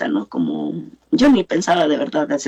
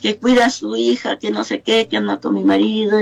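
imitating an indignant woman, higher-pitched; angry confrontation; 5 semitones higher than usual. Angry neighbor complaining to a mother about her daughter, indignant. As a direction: retell an accusing complaint in a raised pitch.

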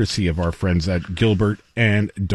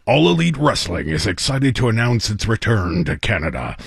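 wrestling announcer voice. Pretend. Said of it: "in my best wrestling announcer voice".

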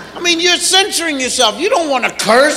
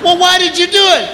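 exasperated parent; 4 semitones higher, faster than usual. Retold or imitated. Parent demands an answer.

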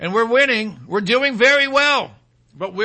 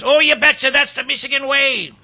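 high, exaggerated Wisconsin accent; mock Wisconsin accent; 4 semitones higher than usual. Host mimicking a Michigan candidate, hammed-up Wisconsin accent. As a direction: put on a broad "you betcha" Wisconsin twang. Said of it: "I'm telling you, that's pure Wisconsin".

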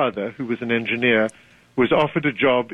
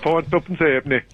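echoed Yorkshire market price, "halfpenny" as "ayp-nee"; Yorkshire accent; 2 semitones higher, faster than usual. Shown as a demonstration. Guest echoing the host's seller, Yorkshire accent. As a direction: copy a northern English trader. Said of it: "Well, well done".

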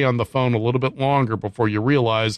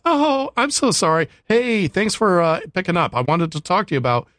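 robot caller voice; 3 semitones higher than usual. Retold or imitated. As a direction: play the fake-friendly sales bot. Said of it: "this robot voice".

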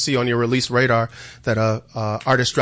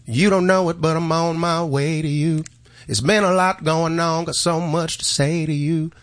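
put-on country accent; 4 semitones higher than usual. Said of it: "I did that in a country style voice first".

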